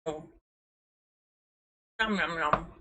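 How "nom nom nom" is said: nom nom chomping. Real, not acted. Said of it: "I'm eating some more food".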